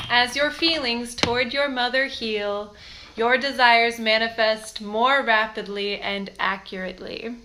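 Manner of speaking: slow, deliberate card reading. Real, not acted. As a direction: read it out slowly and gravely.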